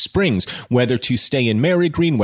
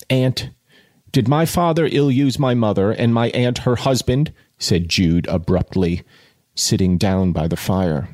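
measured audiobook reading; literary narration with pauses between phrases; story narration; 3 semitones lower than usual. A narrator's reading. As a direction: read the novel aloud with deliberate phrasing.

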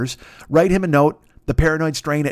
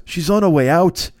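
slow, higher mock Boston voice; Boston accent reply; 4 semitones higher, 3 dB louder than usual. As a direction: imitate the other guy's Boston drawl. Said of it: "does a bad Boston accent".

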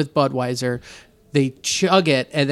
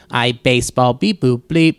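stiff mechanical robot voice; 5 semitones lower than usual. Retold or imitated. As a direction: say it like a beeping robot. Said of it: "you just want robots".

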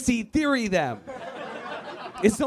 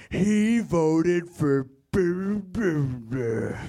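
ominous ad voice; 2 semitones lower, much slower than usual. Retold or imitated. Political attack ad narrator, slow ominous voice. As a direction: read it like a scary attack ad. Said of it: "a voice will come out".

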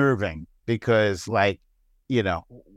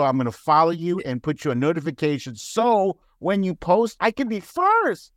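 mock eager follower; 5 semitones higher than usual. Mimics eager hostile followers.

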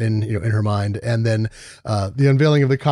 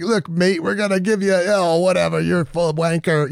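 mock British accent; 4 semitones higher than usual. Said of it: "It was just more like".

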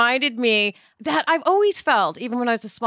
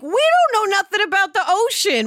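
exasperated rant; 4 semitones higher, faster than usual. Retold or imitated. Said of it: "And I'm like".

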